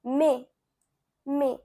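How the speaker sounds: mai as a short French "meh"; French pronunciation. Shown as a demonstration. Teacher showing learners May in French, careful French mai. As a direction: say mai low and spaced out. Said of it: "You can say".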